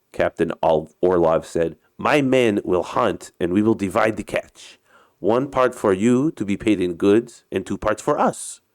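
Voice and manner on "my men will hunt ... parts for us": put-on Russian captain's accented English; story character with a put-on Russian accent. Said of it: "uh, my Russian accent".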